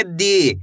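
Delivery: दी with the long ई stretched out; drawn-out dee. Shown as a demonstration. Teacher to pupils, stretching दी. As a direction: hold the vowel of दी long. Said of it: "इसी तरीके से खींच के करना है".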